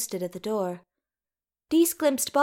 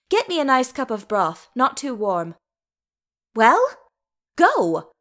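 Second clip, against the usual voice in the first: loud, brisk ordering about; bossy Dees; 2 semitones higher, 6 dB louder than usual. A narrator's reading. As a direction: rap out orders to idle helpers. Dees orders the gaping attendants about.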